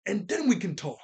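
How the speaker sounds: half-strength yell; imitated yell. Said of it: "Luffy does yell at her".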